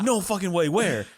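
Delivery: retold excitement, mildly hyped up; excited disbelief. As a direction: play the coworker who can't believe the news. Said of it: "Dude got so excited".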